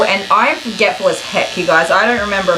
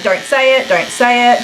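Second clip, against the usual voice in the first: inner voice; 4 semitones higher than usual. Retold or imitated. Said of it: "in my brain, I'm going".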